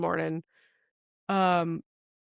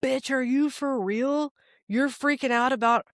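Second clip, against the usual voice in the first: acted inner critic; scolding inner voice; 5 semitones higher than usual. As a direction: call yourself out, incredulous. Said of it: "the other part is like".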